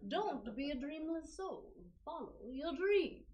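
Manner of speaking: put-on slow, drawn-out old-timey advice; lightly put-on vintage radio sage. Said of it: "I was giving advice in old-timey voices".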